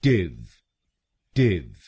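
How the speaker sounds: टिव said alone with a short i; syllable demo. Shown as a demonstration. Teacher models the last syllable: isolated syllable. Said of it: "बोलेंगे".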